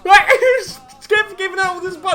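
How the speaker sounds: high laughing words; barely holding in laughter; laughing while talking. Real, not acted. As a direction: giggle through the telling. Laughing through the story.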